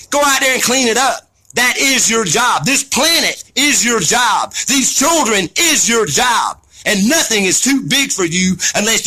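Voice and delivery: rising angry sermon; fired-up shout. Real, not acted. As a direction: preach it at them, fired up. Angry rant, shouting at listeners.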